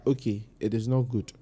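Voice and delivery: low, soft parental correction; relatable gentle scolding. Retold or imitated. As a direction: correct them gently, as mom would. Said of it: "she scolds you in a very relatable way".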